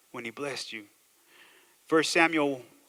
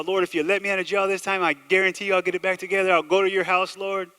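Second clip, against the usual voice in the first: higher-pitched mock begging; mock jailhouse pleading; 4 semitones higher, 4 dB louder than usual. Jailed man bargains with God to get out, mock pleading. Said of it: "if you've ever been in jail".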